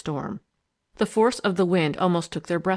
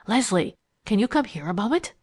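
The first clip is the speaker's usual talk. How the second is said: suppressed excitement; 3 semitones higher than usual. Acted. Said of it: "in a voice full of suppressed excitement".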